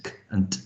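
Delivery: k and t as separate bare sounds; pure k, pure t; two distinct phonemes. Shown as a demonstration. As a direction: sound out k, then t, with no vowels. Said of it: "You've got two distinct phonemes".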